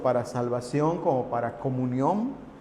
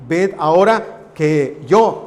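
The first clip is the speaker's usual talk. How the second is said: slow, louder call on "Ved ahora que yo"; forceful repetition; 6 dB louder, slower than usual. Acted. Preacher repeats the key phrase loudly to the brothers. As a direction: drive the phrase home slowly and loudly.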